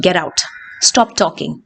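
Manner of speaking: "Get out", "Stop talking" dropping low; falling commands. Shown as a demonstration. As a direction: order it with pitch falling on "out" and "talking". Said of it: "commands will have falling intonation".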